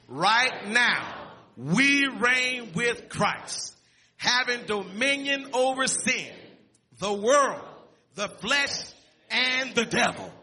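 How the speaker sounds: "Right now, we reign with Christ" read slowly, each phrase weighted; slow down and give every phrase weight as you read the quote together; unhurried emphatic group reading of "having dominion over sin"; slow, deliberate reading aloud. Shown as a demonstration. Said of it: "I didn't want us to read that too fast".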